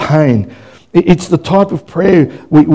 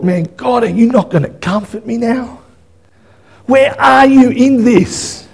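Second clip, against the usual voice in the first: pleading with God; 5 semitones higher than usual. Acted. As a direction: plead upward, stretching the last question. Acts sleepless, despairing prayer to God.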